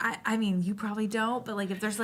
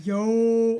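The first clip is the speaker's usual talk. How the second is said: deep, loud, drawn-out casual "yo"; 9 dB louder than usual. Showing the voice used for people cared about: deep casual greeting. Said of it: "my voice gets, like, deep".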